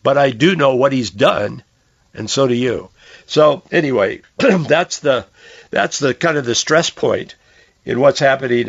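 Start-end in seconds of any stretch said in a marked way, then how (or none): 3.3-8.7 scratchy, worn-out voice; hoarse voice. Real, not acted. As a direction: speak through a hoarse throat. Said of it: "I'm losing my voice again today".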